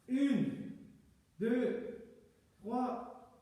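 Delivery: counting through push ups; strained counting mid push up; doing push ups. Real, not acted. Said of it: "On est prêt pour dix pompes".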